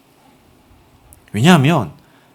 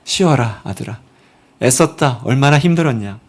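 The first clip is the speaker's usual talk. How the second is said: tender comfort; 3 semitones lower than usual. Pretend. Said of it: "어루만지며".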